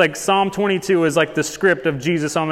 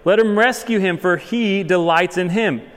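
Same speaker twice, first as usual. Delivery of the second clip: raised, louder mock challenge; higher-pitched imitation of taunting onlookers; mocking crowd; 4 semitones higher, 3 dB louder than usual. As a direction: imitate jeerers daring God to act. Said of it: "they would mock him".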